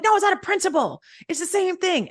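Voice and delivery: very high, loud protest; indignant yelling. Retold or imitated. Customer refusing the guy's offer to pay, indignant yelling. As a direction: argue shrilly on principle. Acted quarrel over the price.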